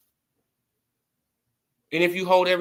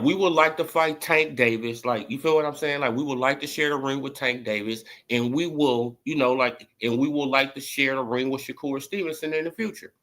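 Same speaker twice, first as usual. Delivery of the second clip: mocking quote; 5 semitones lower than usual. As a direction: parody a timid official statement. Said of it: "duck statement like this".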